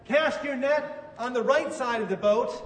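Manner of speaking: calling out. Retold or imitated. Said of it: "he yells back to them".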